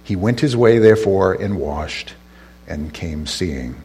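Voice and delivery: measured Bible reading with deliberate pauses; scripture reading. Acted. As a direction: read the verses aloud to a congregation. Reads scripture aloud.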